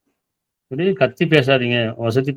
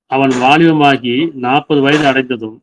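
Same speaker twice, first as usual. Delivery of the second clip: verse reading; 3 dB louder, slower than usual. Shown as a demonstration. Quoting a verse, then explaining.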